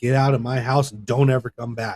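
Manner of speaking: ordinary delivery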